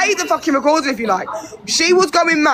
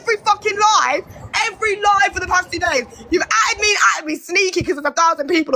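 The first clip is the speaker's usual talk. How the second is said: raised, higher angry shout; 4 semitones higher than usual. Real, not acted. Accusing Karis of antagonising her on lives, real angry shouting.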